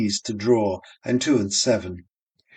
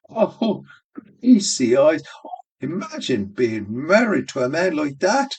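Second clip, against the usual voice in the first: crying out in laughter; 4 semitones higher than usual. A narrator's reading. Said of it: "she cried".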